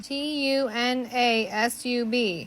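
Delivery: slow, letter by letter; spelling out. Shown as a demonstration. Wife spelling the joke for viewers, slowly. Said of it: "write it down".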